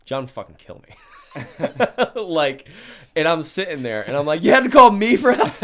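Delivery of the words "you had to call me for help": much higher, loud laughing mock question; incredulous laughing retort; laughing disbelief. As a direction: laugh at the absurd request. Mocking her call for help.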